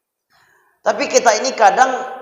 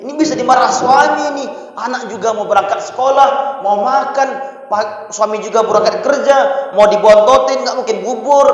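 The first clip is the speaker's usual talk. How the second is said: lightly voiced flustered wife, raised pitch; panicking housewife; 3 semitones higher than usual. Preacher imitating a wife who overcooked rice, mild panic. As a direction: fret like a cook who ruined the rice. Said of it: "Ngomongnya gini".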